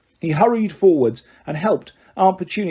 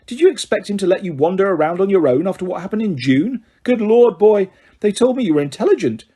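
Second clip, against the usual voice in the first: put-on higher, exasperated old lady; impatient old woman; 4 semitones higher than usual. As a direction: scold him impatiently. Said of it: "said Missus Figg impatiently".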